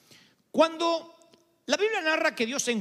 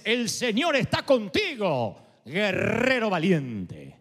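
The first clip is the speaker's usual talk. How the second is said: God's greeting; much slower than usual. Retold or imitated. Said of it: "el saludo de Dios es".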